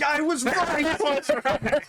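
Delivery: milk the punchline in a high, slow crow; smug triumph. Acted. Magician to the audience, a slow high crowing gloat.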